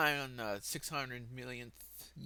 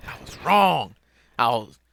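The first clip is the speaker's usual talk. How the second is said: yelled admission; 11 dB louder than usual. Acted. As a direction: blurt it out loudly.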